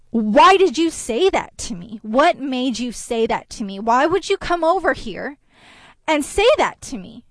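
mildly heated, demanding questions; acting out an upset woman confronting you. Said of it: "raising her voice at me".

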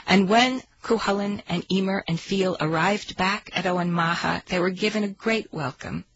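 storyteller reading aloud; story narration. Acted. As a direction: tell it like an old tale.

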